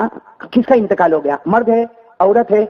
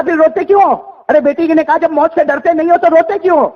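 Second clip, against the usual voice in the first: higher, pointed question; daughter's voice; 7 semitones higher than usual. Acted. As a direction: press him gently in her voice.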